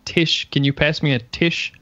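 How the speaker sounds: imitating a friend who says "tish" for tissue; tissue cut short. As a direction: drop the final vowel of tissue, leaving "tish". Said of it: "and he was saying".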